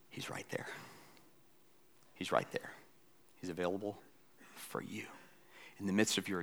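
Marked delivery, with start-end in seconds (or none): 0.1-5.0 soft whispered reassurance. Real, not acted. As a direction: lean in and whisper it gently. Quiet assurance.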